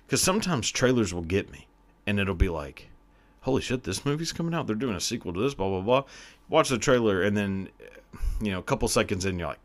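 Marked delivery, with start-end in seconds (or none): 3.4-6.0 quick, higher-pitched mock excitement; lightly acted excited outburst; mock excited reaction. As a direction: rattle it off as imagined trailer hype. Acting out reaction to trailer.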